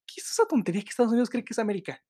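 high, fast indignant question. Real, not acted. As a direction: fire it off, fed up and incredulous. Indignant rant about America.

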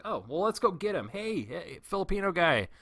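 sarcastically eager, hailing a coworker; mock eager call. Calling coworker over, retold.

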